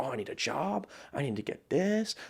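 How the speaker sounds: soft, mopey pretend complaint; mock whining. Mocking the self who could have sat and complained, soft whine. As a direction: mope it out like a quitter. Mocking his hypothetical excuses.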